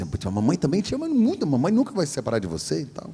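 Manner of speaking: high, gentle reassurance; tender mother. Retold or imitated. Mother hugging her son to her chest, tender and reassuring. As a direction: hold him close and reassure.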